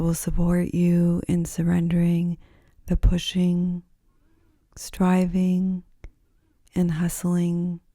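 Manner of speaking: unhurried, soothing guidance into rest; guided yoga nidra. Acted. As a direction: ease the listener down gently, phrase by phrase.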